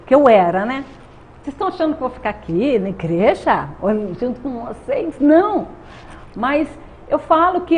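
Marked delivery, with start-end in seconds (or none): 1.4-5.7 retold indignation, rushing to an emphatic refusal; defiant refusal. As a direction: act out refusing the very idea. Recalls refusing to stay at church.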